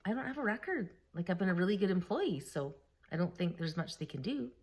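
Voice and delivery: softly spoken, unbothered retold reply; calm. Answering boss's worry about being fired, calm. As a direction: play it down quietly, as if unworried. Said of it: "I was all calm".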